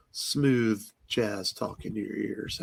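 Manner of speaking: slow, soft late-night DJ croon; smooth jazz radio voice. Pretend. Host teasing listeners in a slow smooth jazz DJ croon. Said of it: "they said I had a smooth jazz radio voice".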